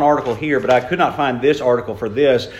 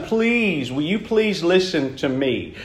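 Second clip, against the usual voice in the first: pleading father; 5 dB quieter, slower than usual. Retold or imitated. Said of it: "the father is basically begging his son".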